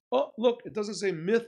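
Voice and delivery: joyful shout of it's yours; excited discovery. Acted. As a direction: announce the money is his with delight. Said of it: "Wow, he's so happy".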